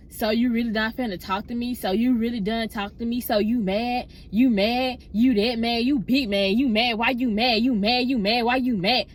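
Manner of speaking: relentless run of nagging questions; imitated pestering. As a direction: pester on and on, mimicking her. Imitating the girl pestering her.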